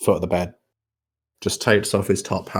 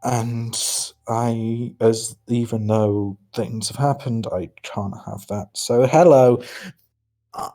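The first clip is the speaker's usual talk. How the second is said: light Irish twang instead of posh; Irish accent. Acted. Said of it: "his voice distinctly changes from the posh voice ... I'm trying for a more Irish twang".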